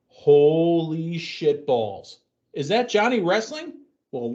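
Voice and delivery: mock announcer hype. Acting out live announcer reaction.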